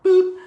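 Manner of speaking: a squeaky high-pitched boop, like a cartoon button. Host booping playfully at the viewer, squeaky high boop. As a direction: pop it out high and bright. Playful sound effect in intro.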